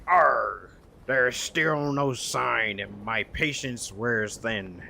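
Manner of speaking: slow, weary sea captain voice; a hint of a grizzled pirate captain. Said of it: "I should give this a pirate voice".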